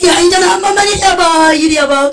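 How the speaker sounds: high, loud demanding call; desperate shout. Acted. Trapped woman shouts at the preacher to come.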